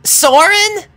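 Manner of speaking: high, loud cry. A narrator's reading. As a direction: cry out a name in worry.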